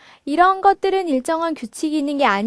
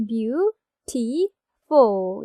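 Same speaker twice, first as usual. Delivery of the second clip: beautiful split slowly into three syllables; beautiful spoken slowly, one syllable at a time; 2 semitones lower, much slower than usual. Shown as a demonstration. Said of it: "이렇게 삼 음절로". (beautiful을 천천히 음절별로)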